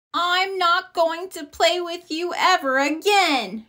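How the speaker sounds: mild mock shout; angry shout. A narrator's reading. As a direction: storm off in a huff. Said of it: "shouted Sister".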